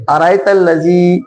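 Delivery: अराइतल लज़ी with ज़ी held long; stretched ending. Shown as a demonstration. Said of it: "इसको खींचेंगे".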